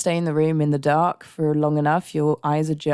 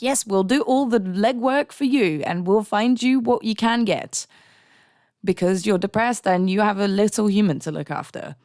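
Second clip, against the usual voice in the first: mock helpful helpers; 4 semitones higher than usual. Mimicking helpful support people.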